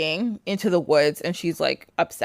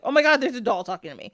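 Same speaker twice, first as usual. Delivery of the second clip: quick, higher mock astonishment; startled; 5 semitones higher, much faster than usual. Vasilia reacting to a doll that talks, in playful astonishment. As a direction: blurt it fast through a giggle.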